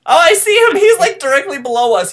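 high, loud alarmed call; excited shout. Real, not acted. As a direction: call it out to the team.

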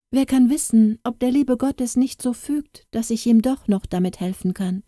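put-on high, hopeful girl's voice; hopeful thought. Katrin hiding the key, hoping to still help the prince. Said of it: "dachte sie".

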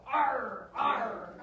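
a hint of a pirate's arr; pirate growl. Shown as a demonstration. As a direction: lightly voice a pirate for toddlers. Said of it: "What else does a pirate do?".

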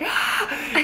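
short high mock cry; imitated startled yelp. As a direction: yelp as if bailing out in fright. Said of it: "bailed out, like".

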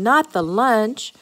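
slow, dragged-out groan. A narrator's reading. Everyone learns the lunch is gone, groaning. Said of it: "groaned everyone".

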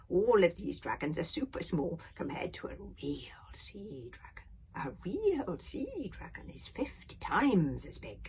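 put-on a touch of an old storyteller; lightly voiced old grandfather. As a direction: lightly play an elder describing sea monsters.

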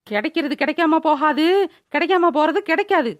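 mock-heroic film dialogue; heroic declamation. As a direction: proclaim it like a grand punchline. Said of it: "திடீர்னு வீரவசனம் பேசுற". (வீரவசனம் பேசும் தொனி)

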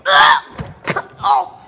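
high retching cries; gagging. Real, not acted. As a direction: gag on the first bite. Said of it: "I gagged my head off".

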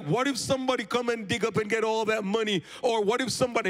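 high, fretful friend's voice; the friend frets that someone will dig up the money, high and anxious; worried friend. Acted. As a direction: fret about grave robbers as the friend.

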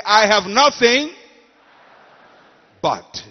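loud call for all to repeat; preacher leading a chant; congregation call. Shown as a demonstration. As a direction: lead the crowd in saying it. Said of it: "Everybody say".

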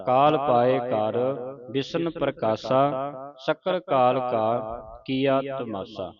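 slow, measured verse recitation; scripture recitation. Shown as a demonstration. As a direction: recite the verse slowly, drawing out line endings. (ਹੌਲੀ-ਹੌਲੀ ਪਾਠ ਉਚਾਰਨ)

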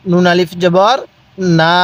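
"জবর" rising, then "না" held level; measured chant with a long "না"; drawn-out vowel. Shown as a demonstration. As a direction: spell it and stretch "না". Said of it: "উচ্চারণ কিভাবে পড়বেন".

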